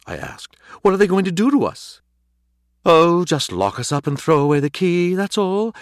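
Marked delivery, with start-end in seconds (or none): 0.8-2.0 high, loud panicked question; alarmed question. A narrator's reading. Alarmed dog begs to know. 2.9-5.7 high, loud, climbing hysteria; worked-up cat spiralling upward; hysterical sarcasm. A narrator's reading. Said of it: "His hysteria had subsided".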